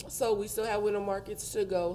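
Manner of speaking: words through a numb mouth. Real, not acted. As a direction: still numb from the dentist. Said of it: "my mouth is numb".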